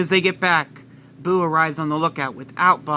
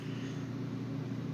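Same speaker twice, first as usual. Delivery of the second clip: deep breath; 16 dB quieter than usual. Acted. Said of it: "Vegeta takes a deep breath".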